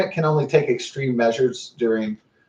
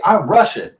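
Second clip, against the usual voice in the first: higher-pitched, proud announcement; proud declaration; 5 semitones higher, 4 dB louder than usual. Retold or imitated.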